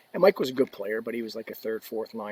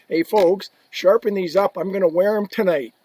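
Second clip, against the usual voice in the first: imitating Messier; 7 semitones higher, 8 dB louder than usual. Messier ordering skates sharpened.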